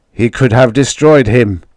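the father's anger still burning; father, shaken, in a voice his son doesn't know; strange shaken voice. Retold or imitated. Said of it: "in a voice I didn't know".

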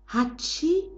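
small sneeze in bed at night; soft sneeze. A narrator's reading. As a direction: sneeze it softly. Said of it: "machte er leise".

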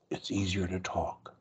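unvoiced soft whisper. Shown as a demonstration. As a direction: whisper it gently. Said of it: "soft voice".

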